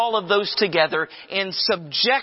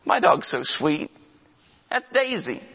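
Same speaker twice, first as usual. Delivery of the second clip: doting dog owner. Retold or imitated. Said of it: "and you say".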